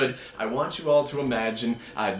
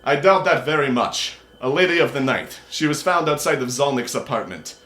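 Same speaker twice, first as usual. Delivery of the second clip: Rakshasa's cool reply; 4 semitones higher, 6 dB louder than usual. Acted. GM voicing Rakshasa.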